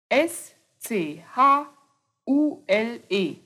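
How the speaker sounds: slow letter by letter, S C H then U L E; spelled out slowly. Shown as a demonstration. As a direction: spell Schule for the class. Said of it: "wird folgendermaßen buchstabiert". (langsam buchstabiert)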